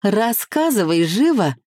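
put-on lifted, impatient girlish plea; eager demand. A narrator's reading. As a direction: press a friend for gossip, eagerly. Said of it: "вцепилась в мои плечи и потрясла".

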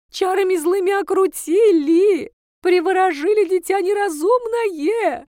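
loud, slow, high hysterical wailing; theatrical shrieking lament; wailing outcry. Acted. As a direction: wail it to the whole street like a scandalous mother. Mother-in-law wailing to the street.

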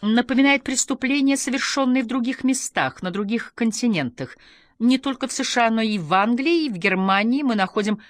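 high, loud broadcast voice; lifted, projected interviewer delivery; TV presenter. A narrator's reading. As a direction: list the places emphatically on air. Television voice carries on.

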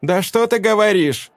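high sneering retort; mock him openly; woman mocking the leader. A narrator's reading. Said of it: "издевательски ответила Вильда".

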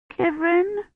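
put-on very high little child's cry. A narrator's reading. Found child flings herself at rescuer, crying out. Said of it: "she cried".

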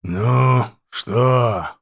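hoarse, openly mocking question. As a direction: taunt him in a rasp. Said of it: "с явной насмешкой спросил".

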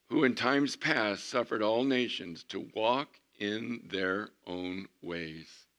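slow, weighty Bible read; slow scripture reading. Acted. Preacher reading Acts to the congregation, slowly. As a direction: lean on every word of the verse.

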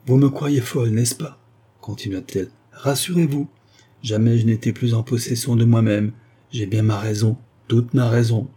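a hint of a defiant prisoner; calm resolute woman. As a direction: insist she is sane, firmly. Flavia voiced by narrator.

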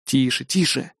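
soft urgent shush; hushing. A narrator's reading. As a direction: hush them quickly. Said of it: "шикнул я". (шикнул)

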